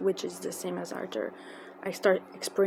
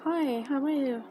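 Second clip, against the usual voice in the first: higher, lilting retold hello; friendly greeting; 6 semitones higher than usual. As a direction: imitate his sweet, sing-song hello. Acting out the star's friendly greeting.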